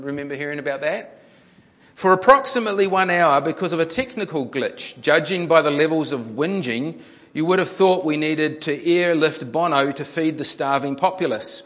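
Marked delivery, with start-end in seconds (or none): 1.9-11.6 emphatic reading to an audience; article read-aloud. A narrator's reading. Preacher reads a news article to the congregation, emphatic read-aloud. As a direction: read it out with punch.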